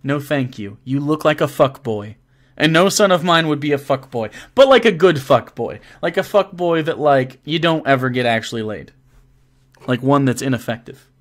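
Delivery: put-on Brooklyn dad voice; Brooklyn accent. Playing a viewer's dad on request, light Brooklyn accent. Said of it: "Is that your Brooklyn accent?".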